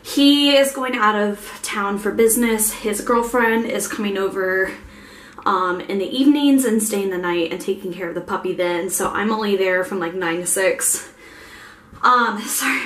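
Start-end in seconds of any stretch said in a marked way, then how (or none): 2.7-11.1 breathless after the stairs; winded, catching breath. Real, not acted. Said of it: "I'm out of breath".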